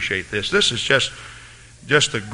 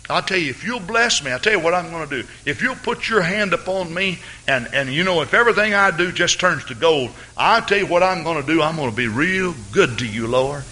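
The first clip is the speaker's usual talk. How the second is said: lightly voiced Jacob, higher and wheedling; bargaining prayer; 5 semitones higher than usual. Jacob bargaining with God in prayer, lightly voiced higher plea. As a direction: haggle with God like a deal-maker. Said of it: "portrayed in his prayer when he says".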